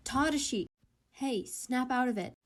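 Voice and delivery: loud, urgent shout of his name; worried boyfriend shouting to snap him out; calling out sharply. Acted. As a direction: jolt him out of it with your voice.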